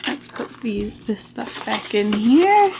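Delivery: talking with a dry mouth; parched mouth, words a bit sticky. Real, not acted. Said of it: "The mouth is dry".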